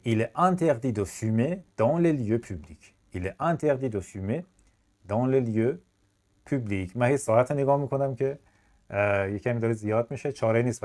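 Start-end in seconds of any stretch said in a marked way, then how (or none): 0.0-2.9 slow, careful teacher read; deliberate classroom French; slow model sentence. Shown as a demonstration. 3.1-7.0 slow, chunked. Shown as a demonstration.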